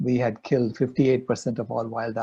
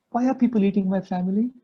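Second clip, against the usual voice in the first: higher, pleading child's wail, lightly voiced; imitating crying child; 8 semitones higher than usual. Grandpa voicing the six-year-old begging him, tearful. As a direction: plead like a little girl in tears, mock sobbing. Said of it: "she started bawling".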